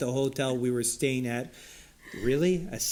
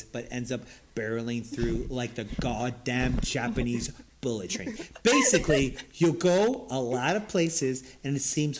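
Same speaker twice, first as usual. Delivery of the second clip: lightly put-on smart guy reading. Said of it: "I'm gonna do a smart voice".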